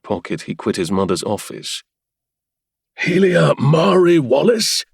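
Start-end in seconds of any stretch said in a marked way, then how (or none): 3.0-4.9 calling the name out much higher and louder, slow; thundering call. A narrator's reading. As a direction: bellow her name through the house. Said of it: "he thundered".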